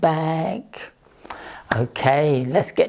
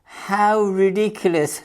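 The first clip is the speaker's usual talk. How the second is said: laughing; 5 semitones higher than usual. Acted. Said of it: "laughed the cockerel".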